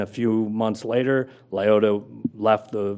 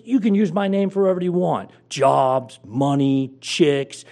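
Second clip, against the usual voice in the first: much higher, louder radio-host swagger; Jim Rome voice; 6 semitones higher, 6 dB louder than usual. Retold or imitated. Host hyping the caller's name on air, high and loud. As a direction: sell it big like a cocky sports host. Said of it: "he's doing the Jim Rome voice".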